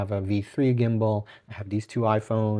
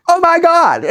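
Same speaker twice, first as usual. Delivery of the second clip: much higher, loud delighted scream back; celebrity squealing back at the fan; excited squeal; 13 dB louder than usual. Retold or imitated. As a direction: echo the fan's shriek with equal joy. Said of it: "she went".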